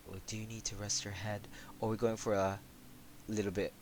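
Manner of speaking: soft, gentle try at a high voice; high character voice. Shown as a demonstration. Trying out a game character's voice for a friend, high. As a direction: try the high version quietly. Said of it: "so that was quite high".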